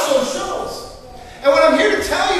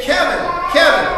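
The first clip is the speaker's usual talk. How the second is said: calling out; 3 semitones higher than usual. Retold or imitated. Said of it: "a woman's voice over the top of me saying".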